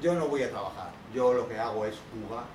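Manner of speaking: put-on slow, drawn-out little child; a kid explaining to his dad. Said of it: "y el niño". (niño hablando despacio con su papá)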